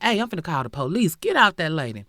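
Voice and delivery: retold yell. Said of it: "and she yell out".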